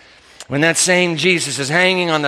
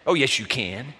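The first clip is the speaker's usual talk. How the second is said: firm insistence; 7 semitones lower, 6 dB quieter than usual. Retold or imitated. Answering the refusal.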